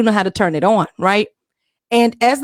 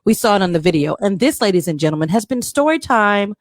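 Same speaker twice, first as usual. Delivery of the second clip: fireside storytelling. Acted. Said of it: "in the female Morgan Freeman voice".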